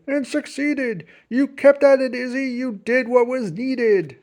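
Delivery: a hint of a proud old grandfather, slowing down; lightly voiced grandpa. A narrator's reading. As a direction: praise then tease her gently. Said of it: "Grandpa said".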